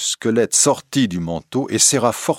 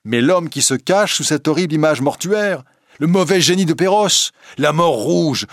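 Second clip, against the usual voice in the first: much higher and louder furious outburst; jealous lover raging at Christine, loud and high; anger; 8 semitones higher, 5 dB louder than usual. Acted. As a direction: let jealous rage pour out at her. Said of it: "fit Raoul avec colère".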